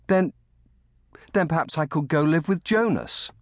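put-on high boy's voice, halting start; brightly hopeful. A narrator's reading. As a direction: float a new idea hopefully. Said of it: "Colly said brightly".

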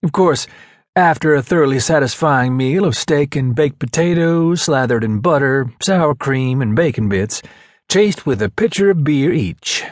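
lightly voiced eager buddy; outgoing ladies' man. SEAL lays out dinner plans to teammates, lightly relishing voice. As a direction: relish each item of the meal.

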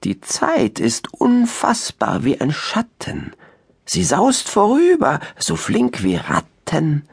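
an owl chanting a rhyming spell; magic spell. Acted. Uhu casting a time spell for the listeners, chanted rhyme. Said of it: "Ein Zaubersprüchlein von Uhu".

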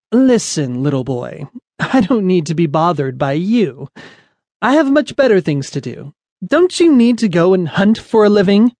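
high, snooty put-down; looking down her nose. Acted. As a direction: dismiss the little boy like a pampered queen. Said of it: "looked down her stubby, fluffy gray and white nose and said".

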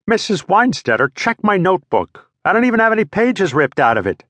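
put-on pleading kid. Boy pleading innocence.

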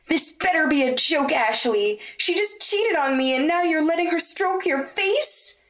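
betrayed. Acted. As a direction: demand an answer through tears of anger. Blonde betrayed by both.

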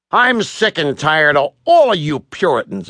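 irritated, mildly acted complaint; a touch of acted anger; fed-up sailor. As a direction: grumble at them, sick of the lot. Sailor rails at the Puritans.

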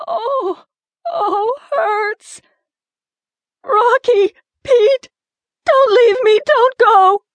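high, loud, desperate wailing; anguished cry. Acted. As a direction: beg him not to leave her, sobbing in pain. Woman abandoned, crying in pain.

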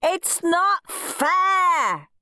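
high, long-drawn protest; howled. A narrator's reading. Henry protests being sent to his room, howling. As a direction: howl it slowly, stretching each word. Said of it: "howled Henry".

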